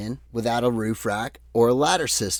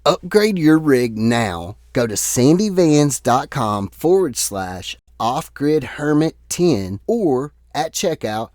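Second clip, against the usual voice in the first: ad read; 4 dB louder than usual. Acted. Sponsor ad read.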